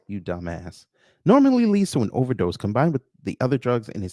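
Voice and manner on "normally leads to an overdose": exasperated re-read. Real, not acted. Re-reads after calling self dumbass.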